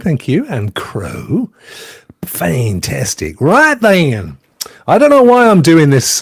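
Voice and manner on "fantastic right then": put-on slow, drawn-out Georgia accent. Greeting a friend from the South, Georgia accent. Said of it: "Georgia accent".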